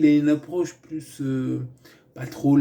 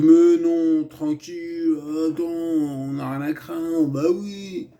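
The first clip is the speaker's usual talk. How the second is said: higher, louder, breezy brush-off; dismissive colleague; 4 semitones higher, 5 dB louder, slower than usual. Retold or imitated. Colleague brushing off the guard's fire alert, loud and breezy. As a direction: wave away the alarm, loud and carefree.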